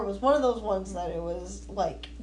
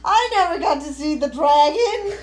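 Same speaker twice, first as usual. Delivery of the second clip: exasperated outcry; 6 semitones higher, 6 dB louder than usual. Real, not acted. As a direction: wail it like a wronged fan. Mock outrage over missed dragon.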